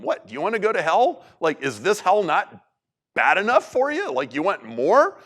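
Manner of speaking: high, scornful retold rebuke; mock disbelief at the other thief; incredulous rebuke. Other thief scoffing at the railing thief, incredulous. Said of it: "the other guy even says to him".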